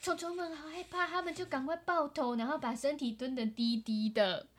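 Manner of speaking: hushed, scared storytelling. A narrator's reading. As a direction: drop to a near whisper. Scared bugs hiding.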